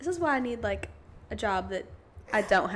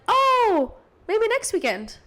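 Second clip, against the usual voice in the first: high, loud run of hopeful offers and let-downs; laughing self-mockery; 7 semitones higher, 5 dB louder than usual. To a friend, offering weekends then cancelling, laughing. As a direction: bounce between hope and oh no, laughing.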